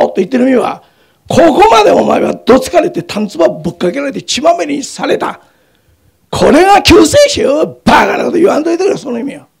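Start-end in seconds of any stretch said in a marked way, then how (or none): 1.3-9.0 jeering mockery. Mocking the beaten Christ.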